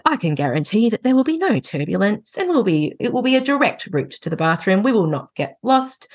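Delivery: lightly voiced cabin crew reassurance; airline hostess voice. Husband's mock flight announcement to the kids, lightly hammed. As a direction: play a smooth flight attendant. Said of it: "airline hostess, like, voice".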